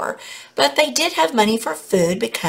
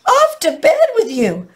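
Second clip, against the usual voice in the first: loud, high scolding mother; angry mother; 9 semitones higher, 4 dB louder than usual. Acted. Teacher voicing Jack's mother scolding him, loud and angry. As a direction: send him to bed in a fury. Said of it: "She was so angry".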